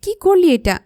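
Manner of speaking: sharp high yell at being splashed awake; high angry cry of a woken sister; angry shout. Acted. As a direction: shout it, furious and startled. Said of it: "রেগে চিৎকার দিয়ে বলে".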